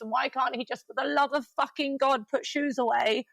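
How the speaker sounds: breathless run-on list of chores, building in exasperation; overwhelmed venting in a rush; frazzled rant. Real, not acted.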